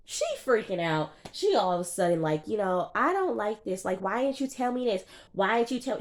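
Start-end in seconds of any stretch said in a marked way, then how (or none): 3.0-6.0 higher mock complaint, half-hearted; imitating upset girlfriend. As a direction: whine like a jealous girlfriend.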